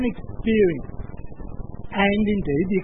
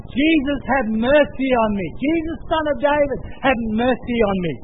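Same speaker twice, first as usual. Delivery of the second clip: higher-pitched plea, mildly raised voice; imitated calling out; 4 semitones higher than usual. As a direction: act out a beggar calling for mercy, not a full shout. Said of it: "calling out".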